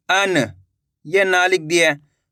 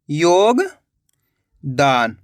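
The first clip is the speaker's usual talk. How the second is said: drawn-out word; 5 semitones lower, much slower than usual. Shown as a demonstration. Teacher to pupils, stretching योगदान slowly. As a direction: stretch योगदान very slowly, every sound held long. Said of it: "यो का उच्चारण निकल रहा है".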